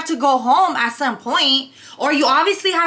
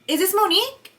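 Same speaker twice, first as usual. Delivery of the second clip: lightly imitated caller, higher questioning voice; imitating caller's tone; 4 semitones higher than usual. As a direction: mimic the caller, pitched higher. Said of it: "I'm gonna use her exact tone".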